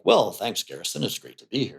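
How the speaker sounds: stiff, formal guest, low and soft; rigid client. Acted. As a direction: play a client politely holding themselves rigid. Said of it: "very rigid posture of".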